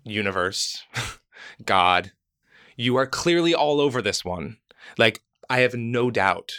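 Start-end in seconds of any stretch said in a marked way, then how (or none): 0.0-4.6 calling out to universe. Retold or imitated. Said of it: "I'm like".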